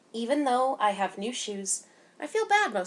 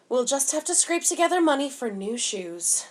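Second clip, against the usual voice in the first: a higher, louder mother's line, resigned; 5 semitones higher, 4 dB louder than usual. A narrator's reading. Mother telling her girl money is tight, a touch higher and louder. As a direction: voice Mama scraping by for shoes.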